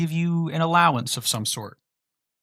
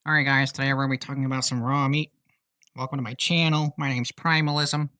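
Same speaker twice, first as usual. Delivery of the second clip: put-on professor voice. Streamer greets chat as Professor Primalism, lightly mock presenter voice. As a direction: play a pompous channel host, a little hammed-up. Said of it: "I'm gonna start talking like this now".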